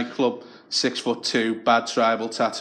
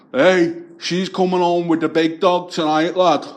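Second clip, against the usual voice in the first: aggressive boast; 6 semitones higher, 5 dB louder than usual. Retold or imitated. Lunatic flips his lid.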